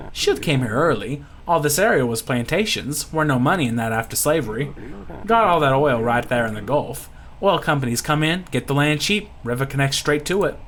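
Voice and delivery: put-on Louisiana accent, matter-of-fact storytelling; folksy Louisiana pirate. Lucky telling how shield came to Norco, Louisiana accent. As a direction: recount history like a bayou old hand.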